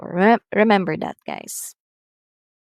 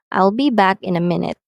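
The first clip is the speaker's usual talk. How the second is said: statement falling on "minute"; brisk model sentence, falling at "minute"; falling intonation; 4 dB louder, faster than usual. Shown as a demonstration. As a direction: let the voice drop through "minute". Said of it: "usually using falling intonation".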